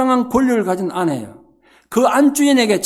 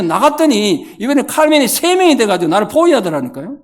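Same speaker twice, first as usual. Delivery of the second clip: usual speaking voice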